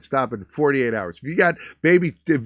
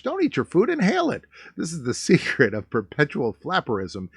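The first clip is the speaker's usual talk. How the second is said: mock excited read; 2 semitones higher than usual. Shown as a demonstration. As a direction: read it like a giddy old ad, rising. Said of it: "second read, rising high".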